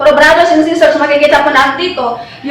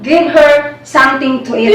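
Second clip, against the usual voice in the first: measured, slightly raised reading of the Gospel; scripture reading; slower than usual. Acted. Preacher reads Bible passage to congregation, slow and reverent.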